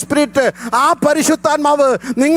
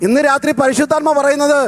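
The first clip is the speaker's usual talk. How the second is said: raised fervent preaching voice; preaching at full force; 5 semitones higher than usual. Acted. Pastor preaching on sacrifice to his congregation, full force. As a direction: drive the message home to the church.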